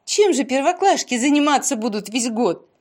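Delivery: high, amused outburst; animated, highly amused questioning; laughing exclamation. A narrator's reading. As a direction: burst out in merry, high-pitched disbelief. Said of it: "а потом расхохоталась".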